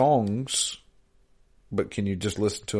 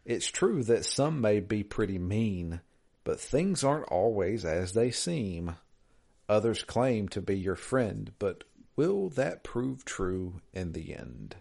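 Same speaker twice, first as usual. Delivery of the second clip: slow, softer riddle recital; mysterious riddle reading; 3 dB quieter, slower than usual. Retold or imitated. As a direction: read it like a sly riddle. Reads riddle email slowly, hushed.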